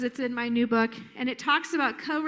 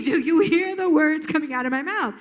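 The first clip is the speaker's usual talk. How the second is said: emphatic outcry; 3 semitones higher, 5 dB louder than usual. Retold or imitated. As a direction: punch it out like an unheard kid. Voicing exasperated kids emphatically.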